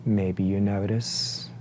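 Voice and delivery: unhurried meditation guide, long pauses between phrases; guided meditation. Acted. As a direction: guide them gently into breath awareness, leaving space after each phrase. Leads a breathing meditation.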